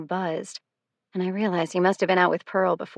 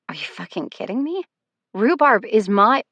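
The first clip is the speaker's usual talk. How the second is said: angry; 4 semitones higher, 7 dB louder than usual. A narrator's reading. Angry outburst at ex.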